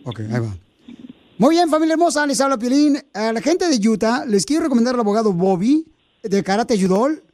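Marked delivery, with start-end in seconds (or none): 1.4-7.2 ad read. Acted. Host recording the lawyer's commercial, upbeat. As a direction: sell the lawyer to the audience.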